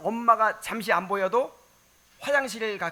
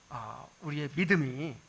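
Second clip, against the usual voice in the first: normal talking voice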